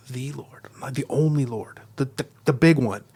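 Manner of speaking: "the" said as THEE before Lord, musing; stress on the. Shown as a demonstration. Teacher modelling inner meditation, stressing "the". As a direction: turn it over, leaning on "the" to mean the only one. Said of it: "I'm gonna say it in my mind like this".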